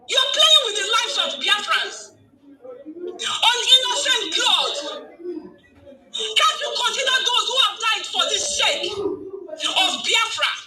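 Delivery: furious rebuke of a cabinet member, slow and high; angry outcry. Real, not acted. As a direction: demand it in outrage, pitch climbing.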